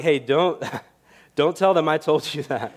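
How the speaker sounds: joking plea broken by a laugh; laughing aside. Retold or imitated. Pastor jokes with his friend, laughing. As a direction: laugh through don't tell them. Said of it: "And I'm like".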